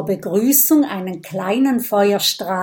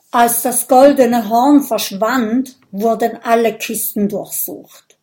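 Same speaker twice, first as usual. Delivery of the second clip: louder, mildly shaky telling; trembling voice; 2 semitones higher, 6 dB louder than usual. Acted. Viking tells how the horn vanished, mildly trembling. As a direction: report it with a quaver of grief. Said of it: "Mit bebender Stimme berichtet er".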